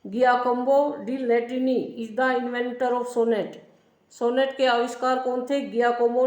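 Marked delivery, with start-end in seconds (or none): 0.0-3.6 slow dictation. Shown as a demonstration. Teacher dictating notes to class.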